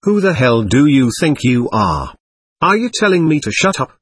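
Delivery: put-on a touch of a drunk soldier yelling; drunken yell. Drunk corporal yelling at a dancing comrade, angry. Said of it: "he yelled".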